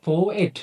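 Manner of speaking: পোয়েট said as two syllables, po-et; two distinct sounds. Shown as a demonstration. Teacher showing students the two sounds in পোয়েট, syllable by syllable. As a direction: sound out both vowels in পোয়েট. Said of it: "আপনারা নিজে নিজে উচ্চারণ করুন".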